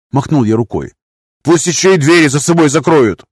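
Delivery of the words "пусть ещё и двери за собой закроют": a cracked high yell; falsetto shout. A narrator's reading. Master demands soldiers leave, falsetto shout. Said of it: "приказал Нарус".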